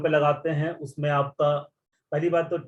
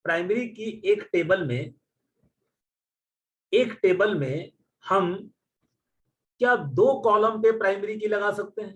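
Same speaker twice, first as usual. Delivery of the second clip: interviewer's question; 3 semitones higher than usual. Retold or imitated. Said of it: "कोई question पूछ दिया कि".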